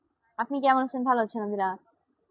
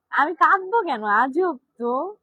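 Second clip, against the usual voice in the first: indignant; 4 semitones higher, 4 dB louder, slower than usual. Real, not acted. Viewer asks her to cry.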